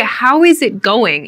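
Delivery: slow, over-careful full form; formal, unfriendly How is it going; stiff, unfriendly. Shown as a demonstration. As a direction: say each word separately, a bit stiff. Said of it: "it sounds too stiff. It doesn't sound so friendly".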